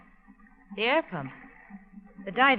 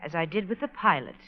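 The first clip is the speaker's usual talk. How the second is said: menacing purr; 4 semitones lower, 5 dB quieter than usual. Acted. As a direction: purr the threat softly. Villainess reveals murders.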